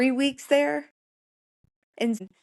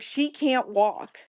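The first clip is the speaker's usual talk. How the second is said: retold upset insistence, slow and higher; upset husband; 4 semitones higher, much slower than usual. Husband speaking up for his wife, slow upset protest. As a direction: stretch it out as an exasperated husband's protest. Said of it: "my husband was so upset".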